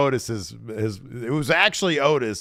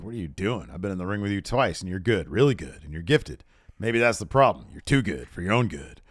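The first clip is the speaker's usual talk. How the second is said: noir movie read; 2 semitones lower, faster than usual. Retold or imitated. Fan reading Becky's promo like a lightly voiced noir detective. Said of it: "reading this like a friggin' noir movie".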